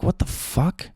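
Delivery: high, hushed mock disbelief; half-voiced, high-pitched disbelief; incredulous. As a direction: act out a stunned husband, pitch rising. Husband reacting to wife's excuses.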